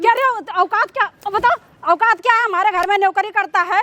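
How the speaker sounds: outraged mother's tirade; scornful, indignant scolding; angry scolding. Acted. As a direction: berate him with indignant questions. Acted mother berates servant.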